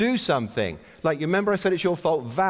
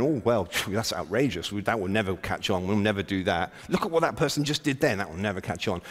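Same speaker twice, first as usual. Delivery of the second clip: a light touch of whining, half under the breath; mock whiny liberal; 5 semitones lower, 3 dB quieter than usual. Speaker mocking himself as a whiny liberal, mild whiny moan. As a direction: moan it like a self-pitying liberal on the couch, but only lightly. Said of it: "I'm a typical whiny liberal".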